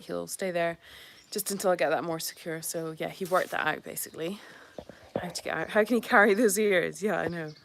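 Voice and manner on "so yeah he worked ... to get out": soft whispered aside; whispering. Real, not acted. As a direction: whisper it quietly.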